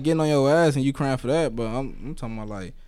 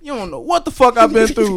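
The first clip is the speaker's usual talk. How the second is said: mock crying; 9 semitones higher, 5 dB louder than usual.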